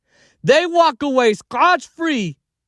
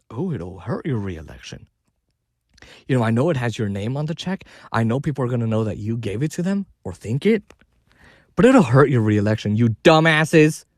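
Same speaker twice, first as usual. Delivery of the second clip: mocking voice; 12 semitones lower than usual. Mocking the dumb advisors.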